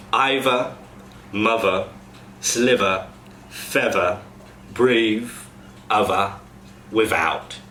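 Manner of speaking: "mother" as muvver, "other" as uvver; final TH as V. Shown as a demonstration. Coach demos TH to V to cast. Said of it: "goes to a v".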